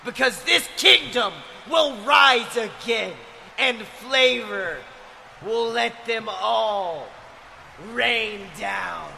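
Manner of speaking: shouted heel promo. Acted. Wrestling heel promo continues.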